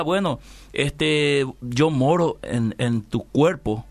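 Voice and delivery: God speaking, very slow and measured. Retold or imitated. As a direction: draw each word out gently as God. Dios le habla al creyente. (Dios hablando, muy lento y pausado)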